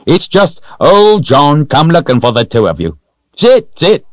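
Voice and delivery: put-on high, loud, hearty old-timer voice; jolly old man. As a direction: play a jovial old fellow reassuring startled travellers.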